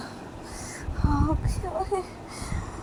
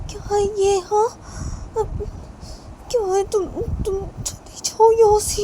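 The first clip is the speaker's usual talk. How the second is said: irritated order; 6 semitones higher than usual. Acted. Parent orders the mother away.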